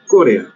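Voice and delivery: "Corea" stressed on the first syllable, CÓ-re-a; correct stress. Shown as a demonstration. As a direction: say "Corea" with the weight on CO, three syllables. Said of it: "Esta es una palabra esdrújula".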